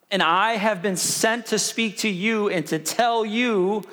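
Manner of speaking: slow, grave angel pronouncement; lightly voiced stern messenger; solemn angel voice. Gabriel rebuking Zechariah, slow and solemn.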